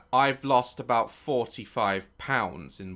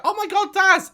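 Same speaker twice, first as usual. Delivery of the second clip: put-on high gushing girl voice; high girly gush; mimicking girls; 5 dB louder than usual. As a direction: imitate a swooning girl. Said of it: "you hear in their voice, it changes".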